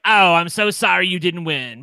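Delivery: put-on raspy old smoker voice; smoker's rasp. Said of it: "B Arthur Smoker's voice you got going".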